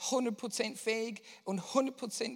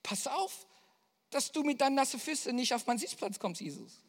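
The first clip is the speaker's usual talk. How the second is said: fast, higher, mock grumbling at Jesus; grumpy disciple; 5 semitones higher, faster than usual. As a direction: scold him like an annoyed boatmate. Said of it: "was hätten wir gesagt?". (Jünger meckert Jesus an, spöttisch genervt)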